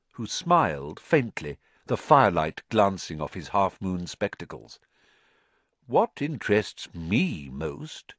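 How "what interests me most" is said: slow and gentle. Acted. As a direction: gently draw them in. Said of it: "said Dumbledore gently".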